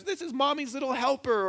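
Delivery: lightly mock a cooing, patronizing parent. Parent showing off a little helper, patronizing. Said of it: "sort of like this patronizing thing".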